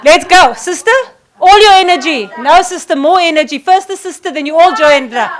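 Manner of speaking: high, loud coaching of the crowd; rallying shouts. Real, not acted.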